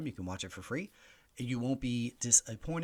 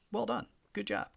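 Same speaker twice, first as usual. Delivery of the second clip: higher, sarcastic congratulations; mock praise; 10 semitones higher than usual. Host teases Affleck about his accent, mock praise. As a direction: praise him with tongue in cheek.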